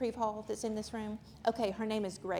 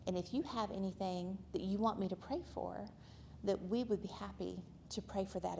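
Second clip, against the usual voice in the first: softer, hushed retelling of her words; retold quiet offer; 6 dB quieter than usual. Speaker to the waitress about prayer, softly. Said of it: "I said very quietly".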